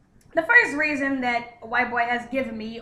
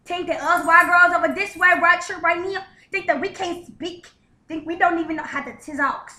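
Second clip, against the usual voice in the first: hammed-up mangled, uneducated speech; mock illiterate talk; 3 semitones higher, 3 dB louder than usual. Mocking those who think they can't speak, mock illiterate. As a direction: garble the words as if unable to speak properly. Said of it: "Some bitches talk like that".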